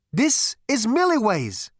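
high, loud, drawn-out proclamation; jubilant. Acted. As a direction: proclaim it slowly at the top of your voice. Zaphod's jubilant announcement.

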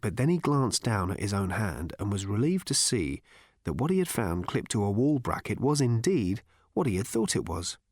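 ordinary talk

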